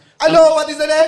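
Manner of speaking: English spoken with a Nigerian accent. Answering a request from Mong to speak Nigerian, in a Nigerian accent. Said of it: "in Nigerian James".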